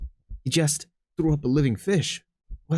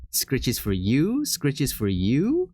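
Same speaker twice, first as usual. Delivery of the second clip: cooing slowly; much slower than usual. Real, not acted. Offering scratches to cats.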